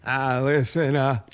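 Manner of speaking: goofy hesitant impression, rising in pitch; Adam Sandler. Comedian performs for Walken eating steak, goofy impression. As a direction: stumble apologetically, then break into silly nonsense. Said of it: "do your Adam Sandler".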